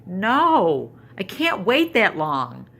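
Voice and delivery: high, loud, hammed-up whine of a little girl; dramatic little girl. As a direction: play the granddaughter's overdone despair, clutching her head. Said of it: "so dramatic, grabs her head and goes".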